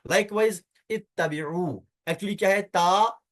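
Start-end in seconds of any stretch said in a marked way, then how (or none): 0.9-1.7 इत्तबिऊ slowly, opening on "it"; initial short i. Shown as a demonstration. Teacher presents the next example, इत्तबिऊ with initial "i". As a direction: draw out इत्तबिऊ with doubled "t" and long final "u". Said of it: "यानी जेर ही आएगा".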